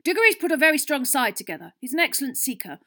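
high, loud, frantic team rant; rally them with fanatical urgency; shouting. A narrator's reading. Captain urging his team not to relax, shouting. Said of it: "Wood shouted, his eyes bulging slightly".

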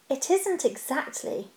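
soft, slow, sheepish admission; uncomfortably. Acted. Bilbo owning up the stone is not his, slow and sheepish. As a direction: trail off, ashamed to admit it. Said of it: "said the hobbit uncomfortably".

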